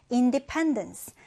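slow "Independence", main stress on PEN; keeping the stresses. Shown as a demonstration. Teacher reading a longer word for learners, "Independence" stressed on PEN. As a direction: say "Independence" slowly, secondary stress on IN, primary on PEN. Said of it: "강세 지켜서 읽어볼게요".

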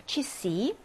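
취씨 said slowly and softly, the unstressed 아 reduced; unstressed a demo. Shown as a demonstration. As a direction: say 취씨 with the 아 reduced to an 이 sound. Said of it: "이 발음이 나겠죠". (강세 없는 아를 이로 줄여 부드럽게 발음한 취씨)

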